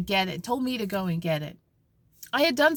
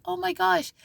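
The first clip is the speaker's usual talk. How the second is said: shocked gasp; 10 semitones higher than usual. Retold or imitated. Shocked seeing his kids.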